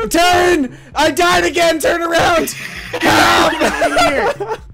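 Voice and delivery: frantic shout. Real, not acted. Dying player yelling at teammates to turn him around.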